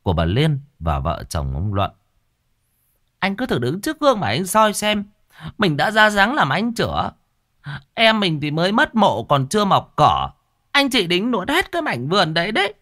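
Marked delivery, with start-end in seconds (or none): 3.2-12.7 shrill angry scolding, much higher; voiced widow shouting high and sharp; furious quarrel. A narrator's reading. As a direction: berate your brother-in-law over the stolen land. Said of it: "màn cãi vã như cái trận".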